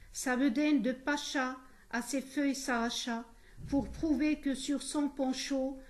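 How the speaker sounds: measured, emphatic verse reading; poem recitation. Shown as a demonstration. Teacher reciting a playful poem as an example, poem recitation. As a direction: recite it with each phrase set apart.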